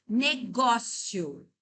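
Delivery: syllable by syllable. Shown as a demonstration. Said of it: "separating syllables".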